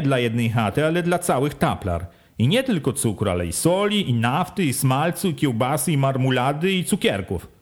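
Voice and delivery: a hint of a bossy village head; village head questioning. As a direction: quiz the villagers like a sly official. Wójt's speech to villagers.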